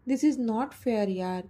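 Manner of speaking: slow sulky whine; sulking. Acted. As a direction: drag it out like a pouting boy. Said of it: "तो तोंड पाडत बोलला".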